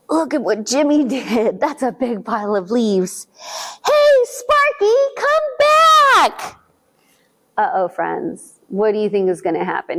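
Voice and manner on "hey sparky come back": calling after the dog. A narrator's reading.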